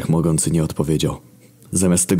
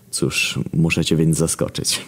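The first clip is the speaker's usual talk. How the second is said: cocky smile; slower than usual. Acted. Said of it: "uśmiechnąłem się zawadiacko".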